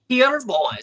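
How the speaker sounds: high sea-captain impression, lightly voiced; Davy Jones. Player warming up a pirate villain impression for a script read. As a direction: attempt a high, loose movie pirate captain. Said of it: "channel my Davy Jones a little".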